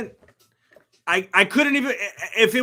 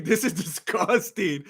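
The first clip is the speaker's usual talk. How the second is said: plain; 4 semitones lower, 3 dB quieter, slower than usual. Real, not acted.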